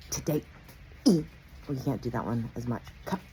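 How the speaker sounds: "today" with every syllable crisply sounded; "Cup" with a hard, crisp final p; over enunciating. Shown as a demonstration. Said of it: "people who enunciate every fucking last syllable".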